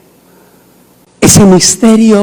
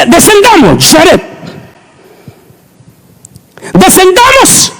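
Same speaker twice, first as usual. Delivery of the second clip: mock divine call; 13 semitones higher, slower than usual. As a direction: call down to Jared like God. Mock God addressing Jared.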